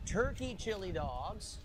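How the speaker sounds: drawn out, savouring each word; slow emphasis. Real, not acted. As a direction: spell out every ingredient slowly. Slowly showing off his food.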